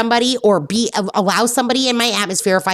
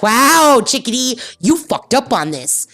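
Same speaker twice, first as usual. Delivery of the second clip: high, mocking schoolteacher lecture to herself; tut-tut at herself like a strict teacher; mock self-scolding; 7 semitones higher than usual. Looking in the mirror, she mock-scolds herself.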